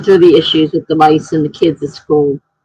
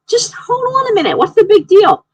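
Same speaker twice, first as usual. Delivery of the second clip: much higher mock-dismissive voice; mock his shrug, pitched way up; imitating the friend brushing her off; mimicking friend. Friend's calm reply, mimicked.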